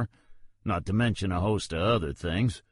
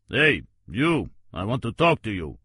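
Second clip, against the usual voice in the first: loud call across the cemetery; 3 dB louder than usual. Acted. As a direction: shout him down, firmly. Detective calls out.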